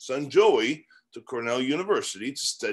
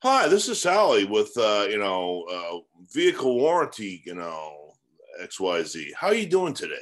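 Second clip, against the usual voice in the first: a hint of a chirpy cold caller, lifted greeting; lightly put-on telemarketer opener; lightly voiced salesperson; 3 semitones lower than usual. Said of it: "And the call's like".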